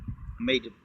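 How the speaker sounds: talking through a mouthful; words round a bite of food; mouth full. Real, not acted. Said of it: "talking with my mouth full again".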